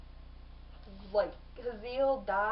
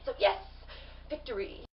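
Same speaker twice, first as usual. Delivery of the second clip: cheering. Real, not acted. Cheering Jen's victory for the viewers.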